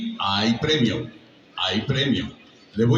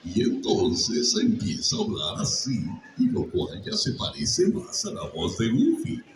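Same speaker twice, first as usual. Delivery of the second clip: Goofy voice with cracks. Shown as a demonstration. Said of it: "le empiezan a meter gallitos".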